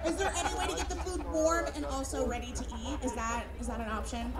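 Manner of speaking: lightly voiced precious San Franciscan diner; fussy city customer. San Francisco customer quizzing about hot food, lightly fussy. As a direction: needle politely with picky questions. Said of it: "somebody from the city".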